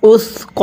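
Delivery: উসক said softly with a soft সা. Shown as a demonstration. A teacher shows students the soft সা, soft and quiet. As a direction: soften the সা in উসক, not শিন. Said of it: "এটাকে সা পড়তে হবে।".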